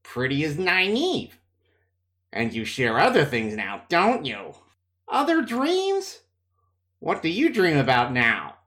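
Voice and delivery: sly, teasing sick voice; sly taunting. Acted. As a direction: taunt her slyly. Matt slyly taunts Egwene.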